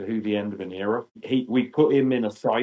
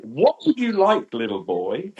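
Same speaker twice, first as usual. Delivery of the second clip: put-on high-pitched, louder question to a small child; imitating man addressing child; 5 semitones higher, 4 dB louder than usual. Doctor Who actor asks a five-year-old what he wants, imitated high-pitched questioning. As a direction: put on a big voice for a little boy.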